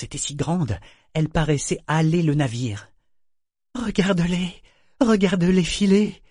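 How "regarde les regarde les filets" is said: high, slow, louder eager cry. A narrator's reading. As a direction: point it out with greedy excitement. Eager figurehead points at ship.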